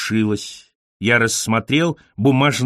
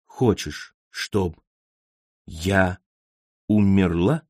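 brokenly; 5 semitones lower, slower than usual. A narrator's reading. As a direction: break the words apart, barely holding on. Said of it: "Фройлейн ломко выговорила". (надломленно, тихо, с паузами)

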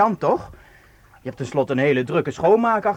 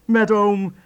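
slow, put-on uncle voice, a bit louder; fake uncle voice; 5 semitones higher, 6 dB louder, much slower than usual. Kasper posing as uncle to Maartje on the phone, slow put-on voice. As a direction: drag out each word like a jovial old uncle. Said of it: "ik zeg dat ik een oom ben".

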